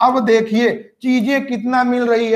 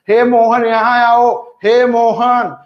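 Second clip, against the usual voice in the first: long louder call, slow; 5 dB louder, slower than usual. Shown as a demonstration. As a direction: call Mohan from far away, holding the हे. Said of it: "किसी को बुला रहे हैं". (किसी को दूर से पुकारते हुए, खींचकर ऊँची आवाज़ में)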